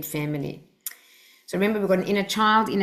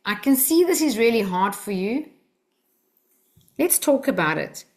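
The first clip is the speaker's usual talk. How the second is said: calm presence; 3 semitones higher than usual. Shown as a demonstration. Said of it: "said with a calm presence".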